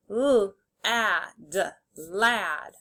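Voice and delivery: "L, ad" as separate sounds, then "lad" whole; sounded out, blended. Shown as a demonstration. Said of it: "say the sounds and then blend".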